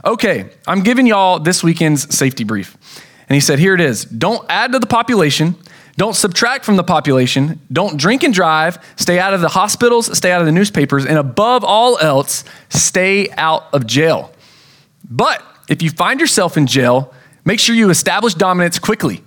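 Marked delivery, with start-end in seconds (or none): 0.0-2.7 supervisor's briefing. Retold or imitated. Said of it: "I'm gonna say exactly what he said". 3.6-19.2 imitating the supervisor. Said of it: "I'm gonna say exactly what he said".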